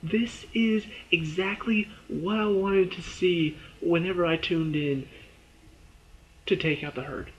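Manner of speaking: high, thrilled gush; thrilled fan. Retold or imitated. Fan gushing about the herd fight, high thrilled squeal. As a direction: squeal with delight at the screen. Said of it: "I'm freaking out".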